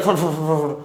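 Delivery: rapid repeated "fad-fad" flutter; imitated wing flapping. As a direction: make the sound of flapping wings. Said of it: "પાંખોને એને ફફડાઈ". (પાંખોના ફફડાટનો અવાજ)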